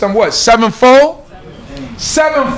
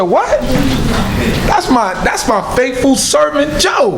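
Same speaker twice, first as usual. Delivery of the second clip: mock indignant exclamation; 3 semitones higher than usual. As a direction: proudly stand up for your servant, play-acted. Voicing God boasting of Job.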